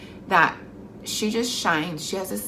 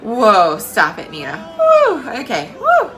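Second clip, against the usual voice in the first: real emotion; 6 semitones higher, 10 dB louder, much slower than usual. Real, not acted. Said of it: "I'm gonna get emotional talking about it".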